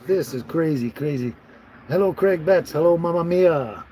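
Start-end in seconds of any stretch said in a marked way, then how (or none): 1.9-3.8 bright, raised greetings called out to viewers; cheery hello. Real, not acted. Vlogger greeting viewers joining his live stream, cheerful and raised. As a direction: welcome each viewer by name, lifted and louder.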